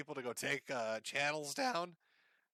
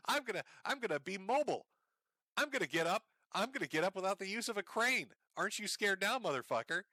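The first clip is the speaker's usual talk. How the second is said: higher-pitched, mocking tough-guy boast; mock threatening; 5 semitones higher, faster than usual. Host ridiculing a man's threat to walk, mock threatening. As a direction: imitate a blustering threat in jest.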